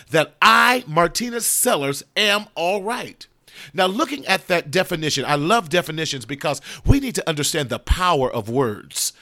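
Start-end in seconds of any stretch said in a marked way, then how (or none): 0.1-3.3 firm, emphatic self-affirmation, slowing at the close; emphatic declaration. Real, not acted. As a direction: declare it emphatically, drawing out the final words. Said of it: "I am making an emphatical declaration".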